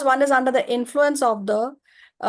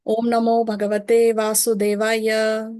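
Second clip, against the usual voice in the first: sing song rote recitation. Shown as a demonstration. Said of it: "Please repeat after me".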